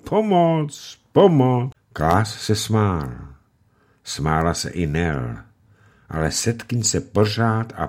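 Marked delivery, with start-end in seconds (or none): 0.1-1.7 high yelping little dog voice; a small dog squealing for help; dog's cry for help. A narrator's reading. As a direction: yelp it out like a frightened puppy. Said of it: "volal svou psí mluvou".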